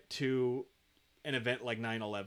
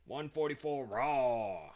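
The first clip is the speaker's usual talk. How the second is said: slow correction; much slower than usual. Shown as a demonstration. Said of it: "forty-four, not eleven forty-four".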